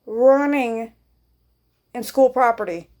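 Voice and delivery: slow, careful, every word spaced out; slow radio report; slow and deliberate. Retold or imitated. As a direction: spell it out slowly over the radio. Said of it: "and this is how I said it".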